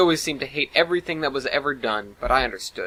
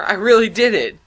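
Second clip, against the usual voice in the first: loud, high yell of triumph; whooping in victory; excited yell; 8 semitones higher, 8 dB louder than usual. Acted. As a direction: shout it out, leaping with joy. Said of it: "he yelled, jumping in the air".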